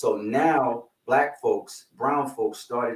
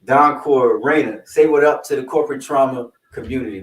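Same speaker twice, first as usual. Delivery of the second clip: calling out; 8 dB louder than usual. Real, not acted. Calling guests to greet audience.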